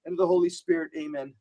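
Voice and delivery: measured litany, calling each saint; prayer. Acted. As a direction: intercede for the country, steady and devout.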